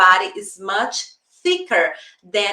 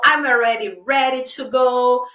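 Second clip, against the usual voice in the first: higher-pitched mock protest; arguing back; 5 semitones higher, 3 dB louder than usual. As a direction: reason your way out of the warning. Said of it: "I start reasoning".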